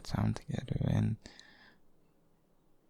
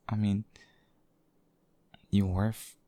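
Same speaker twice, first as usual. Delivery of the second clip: "you worth" whispered with a rise on "you"; intimate whisper. Acted. Tender confession to a lover.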